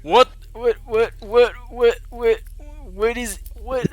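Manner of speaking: high, loud repeated squawks; startled squawk. Acted. Wumpus Dumpus turns to you after losing his wig, startled squawking. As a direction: sputter each word out in loud, high bursts.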